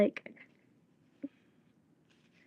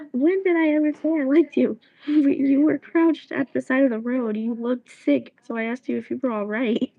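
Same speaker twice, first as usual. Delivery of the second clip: put-on angry girl; 3 semitones higher, 5 dB louder than usual. Girl scolds the boy who pestered her, loud and exasperated. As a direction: tell him off, then laugh at him. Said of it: "He said".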